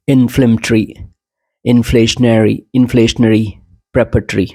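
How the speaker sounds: इन्फ्लेमेटरी, प्रेपरेटरी ending in a short "tree"; British pronunciation. Shown as a demonstration. Teacher reads the list in British first, British pronunciation. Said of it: "मैं पहले British में पढ़ूंगा".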